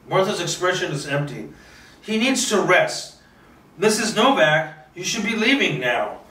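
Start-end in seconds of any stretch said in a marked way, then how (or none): 2.0-6.2 put-on hollow old woman sending him away; cold dismissal. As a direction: shut him out without feeling. Martha's expression is empty.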